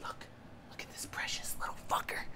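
very soft whispered gloating; barely voiced, secretive whisper; hushed whisper. Real, not acted. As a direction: whisper it close, under your breath. Inspecting the dead cockroach.

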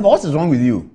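imitating a cross caller; retold scolding. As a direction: demand it like an affronted caller. Caller scolds him on the phone.

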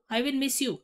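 quiet. Shown as a demonstration.

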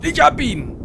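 high triumphant call mid-fight; excited shout. Real, not acted. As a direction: yell it like you got him. Triumph in firefight.

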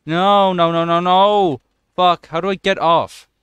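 alarmed yelling. Real, not acted. Zombies grab the player.

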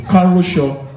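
"Karosho" sounded out as a Yoruba word; say-after-me demo. Shown as a demonstration. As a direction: teach "Karosho" syllable by syllable. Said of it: "you say it after me".

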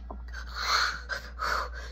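long, soft acted exhale; breathless sigh. Choked kid ordered up by mama, long breathless sigh. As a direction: let out a long weak breath.

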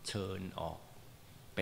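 polite dismissal. Retold or imitated. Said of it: "เราก็ส่งสัญญาณละ".

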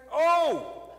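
showing the congregation how excitement sounds, loud and slow; excited exclaiming. Shown as a demonstration. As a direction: gush it out like you're overjoyed. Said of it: "what people say when they're excited".

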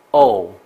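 O U R sung out high and loud, each vowel stretched; vowel sound demo. Shown as a demonstration. Teacher showing the class the vowel sounds, high and loud. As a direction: show each vowel sound clearly, well above the speaking voice. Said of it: "有五个音".

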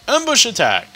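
loud high battle cry; shouting. Acted. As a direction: bellow the attack call. Game shout.

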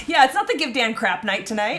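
talking through pizza; mouth full. Real, not acted. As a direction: speak round a mouthful of food. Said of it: "Don't talk with your mouth full of pizza".

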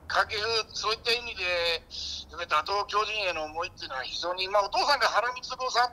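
lightly exaggerated ex-ballplayer pundit impression. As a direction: ramble like an impersonated baseball commentator. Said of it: "掛布正輝です". (掛布のものまねで解説風に語る)

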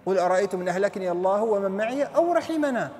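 measured Arabic verse recitation; Quran recitation. Acted. Preacher reciting the next verse to listeners, Quran recitation. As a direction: recite the verse in a sustained, flowing line.

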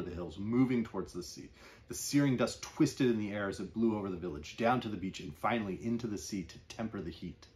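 measured literary reading voice; story narration. Acted. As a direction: evocative read-aloud of a novel passage. Reads closing novel passage.

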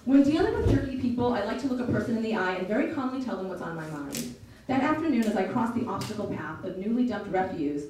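put-on lively audiobook read of a teen's story; story narration. A narrator's reading. Narrator reading a novel to listeners, storytelling voice. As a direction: tell it like a storyteller.

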